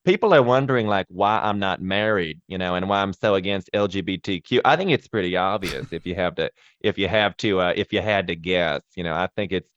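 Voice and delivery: a hint of Southern politician; Lindsey Graham impression. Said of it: "Lindsey Graham".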